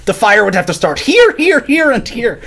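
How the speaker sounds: high, exasperated Irish accent, like Roy from The IT Crowd; incredulous Irish accent. Shown as a demonstration. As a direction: list the exits in incredulous disbelief, Irish lilt. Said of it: "Still a little bit of a leprechaun".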